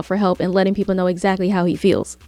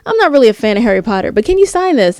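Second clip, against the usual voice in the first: mock sheepish fan request; imitating a fan; 3 semitones higher, 5 dB louder, faster than usual. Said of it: "people would come up to him and say".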